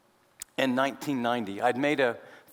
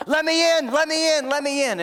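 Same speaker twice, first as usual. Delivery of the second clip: much higher and louder, frantic begging; panicked plea; 12 semitones higher, 8 dB louder than usual. Retold or imitated. Boy outside the door begs the family to let him in. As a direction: cry it like a kid fleeing a dog.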